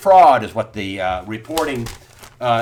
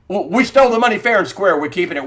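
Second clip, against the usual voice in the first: higher, louder mock banker gloating; smug mock boast; 5 semitones higher, 4 dB louder, faster than usual. Host voicing the bank to listeners, smug mock gloat. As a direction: gloat like the crooked bank would. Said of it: "they feel pretty pompous".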